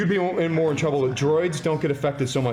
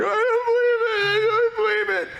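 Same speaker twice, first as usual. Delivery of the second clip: very high, squealing panic voice; hammed-up high-pitched hysteria; acted freak-out. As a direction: squeal it in cartoonish disbelief. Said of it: "freaking out, going".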